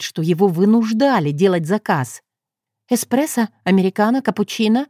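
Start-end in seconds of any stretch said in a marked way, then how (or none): 2.9-4.9 flustered. Acted. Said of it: "засуетилась я".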